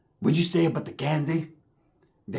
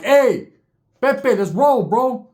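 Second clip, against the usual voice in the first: higher, louder hurry-up call; urgent call; 6 semitones higher, 5 dB louder, much slower than usual. Retold or imitated. Seeing rival gang, urging Pepe to go. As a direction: push him to leave now.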